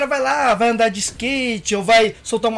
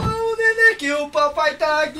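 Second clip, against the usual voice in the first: put-on soothing a child; 5 semitones higher, 3 dB quieter, slower than usual. Baby talk during hug.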